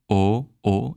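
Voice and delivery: pure single O vowel; O sung flat and pure, no slide; French O. Shown as a demonstration. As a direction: hold a clean O with no glide. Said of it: "when you have a vowel like O".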